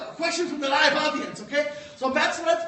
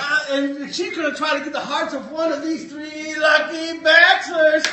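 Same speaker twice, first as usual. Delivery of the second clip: game show host; 6 dB louder than usual. Acted. Host continues big voice.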